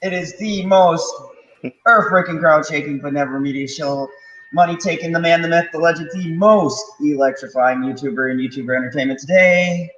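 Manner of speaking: big booming ring announcer hype; wrestling announcer intro. Pretend. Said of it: "use the General Zod voice".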